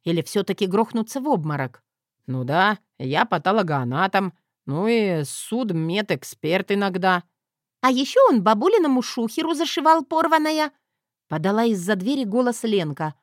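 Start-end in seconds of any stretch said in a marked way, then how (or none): 2.3-7.2 put-on young doctor voice. 7.8-10.7 put-on high, loud gleeful girl; little girl voice.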